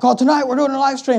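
mock-eager, lifted pitch; mock announcement. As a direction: parody an eager live-stream host. Imitating live streamers' announcements.

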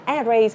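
"erase" misread as "E-race" with open e; wrong pronunciation. Shown as a demonstration. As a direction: say "erase" starting on a full "air" vowel. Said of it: "nhớ là không đọc là".

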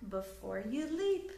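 lively, sing-song storybook reading; reading to children. A narrator's reading. Teacher reading a picture book aloud to children, lively storytelling. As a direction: read it like bedtime story time for little ones.

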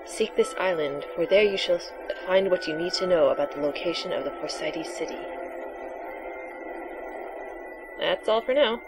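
hushed mystical seer; breathy oracle voice. Acted. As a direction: softly intone the prophecy. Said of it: "your breathy, sexy voice for the oracle".

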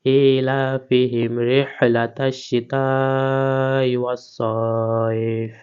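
slow melodic verse chant; Quranic recitation. Shown as a demonstration. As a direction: recite the full ayah in a drawn tilawat tune. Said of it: "শেষে গিয়ে আমাদেরকে ফাটা উচ্চারণ করতে হবে".

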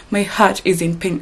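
says it with a real laugh; laughing through hurt. Real, not acted. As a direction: laugh helplessly while admitting the pain. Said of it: "I don't even know why I'm laughing".

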